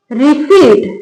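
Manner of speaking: रिसीट said with no P sound; silent P in receipt. Shown as a demonstration. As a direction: say रिसीट, going straight from the long ee to T. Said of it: "रिसेप्ट नहीं लिखा".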